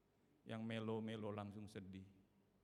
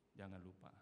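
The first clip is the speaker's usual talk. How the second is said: softer echo; 4 semitones lower, 8 dB quieter than usual. Shown as a demonstration.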